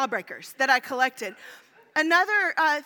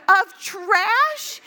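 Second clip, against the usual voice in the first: loud, high, laughing jab; laughing retort; 6 semitones higher, 6 dB louder than usual. Retold or imitated. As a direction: laugh it out in disbelief.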